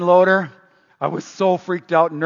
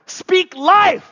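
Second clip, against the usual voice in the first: rally the crowd; call-out shout; 12 semitones higher, 6 dB louder than usual. Shown as a demonstration. Preacher calling to the congregation, shouting loud. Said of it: "So I go".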